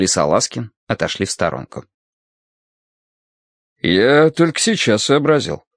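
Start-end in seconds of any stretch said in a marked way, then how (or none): 3.8-5.6 cheerful surprise. A narrator's reading. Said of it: "весело удивился Каховский".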